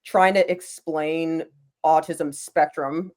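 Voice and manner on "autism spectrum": slow, deliberate weight on "spectrum"; "spectrum" spoken slowly and distinctly; stress on spectrum. Real, not acted. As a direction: draw out "spectrum" for emphasis. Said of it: "emphasis on the word spectrum".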